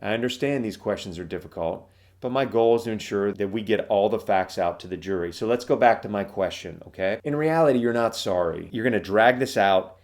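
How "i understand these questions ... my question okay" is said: calm sympathetic lawyer. Shown as a demonstration. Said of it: "speaking very calmly, softly, acting sympathetic".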